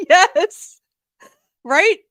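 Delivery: high, loud laughing agreement. Real, not acted. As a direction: say it through real laughter. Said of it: "I'm laughing".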